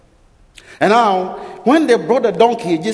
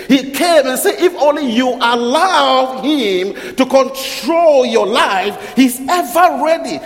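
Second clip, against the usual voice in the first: preacher building to a fiery, higher peak; rising preaching; 3 semitones higher than usual. Acted. Preaching builds to full force.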